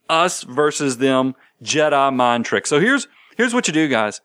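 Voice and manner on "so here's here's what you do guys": ordinary delivery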